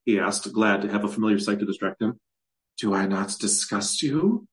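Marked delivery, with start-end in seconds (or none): 2.8-4.5 slow, a touch of sadness, rising question; almost sad. Acted. Hag asks Kazlant, sounding almost sad. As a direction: ask it with a hint of hurt. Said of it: "sounding almost sad".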